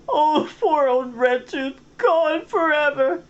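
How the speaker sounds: high, slow, loud hammed-up wail; fake sobbing. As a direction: wail it, overdone grief. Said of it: "sobbed brokenly".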